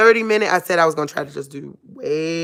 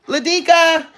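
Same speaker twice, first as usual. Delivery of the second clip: very high pet call; 12 semitones higher, 3 dB louder than usual. Real, not acted. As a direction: sing out the dog's name, high. Calling out to dog.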